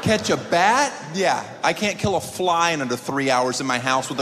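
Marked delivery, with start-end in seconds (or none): 0.0-0.9 incredulous. Real, not acted. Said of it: "I'm out".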